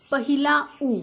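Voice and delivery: "पहिला उ" with उ as the short vowel of book; name "पहिला उ", giving a short oo for उ; "पहिला उ", the उ a short u sound. Shown as a demonstration. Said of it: "म्हणजेच ऱ्हस्व उ असा उच्चार".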